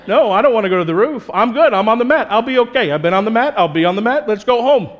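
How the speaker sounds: man on the mat protesting to his friends; reluctant friend. Retold or imitated. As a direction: back out of the crazy plan. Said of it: "That poor guy on the mat had to be like".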